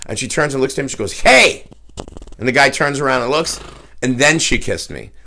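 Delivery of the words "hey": high, loud shout to catch the bouncer's eye; sharp shout. Retold or imitated. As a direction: snap his head around with one loud "Hey!". Girl shouts to get the bouncer's attention.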